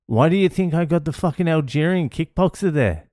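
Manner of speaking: high-pitched, indignant dad telling off his son; retold yelling. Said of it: "and I'm yelling".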